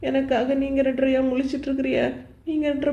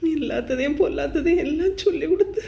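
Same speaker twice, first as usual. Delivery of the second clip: sobbing. Acted. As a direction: let the sobs break the words. Complains of mother-in-law, sobbing. (விம்மி அழுதபடி)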